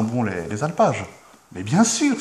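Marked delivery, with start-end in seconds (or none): 1.5-2.2 sarcastic. Acted. Sarcastic retort to the milk.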